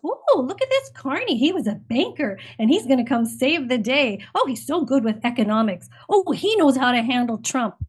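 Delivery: imitating fawning coverage with a swooping pitch; mock gushing media. Guest mimics Canadian media selling Carney, mock gushing. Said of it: "the Canadian media just goes".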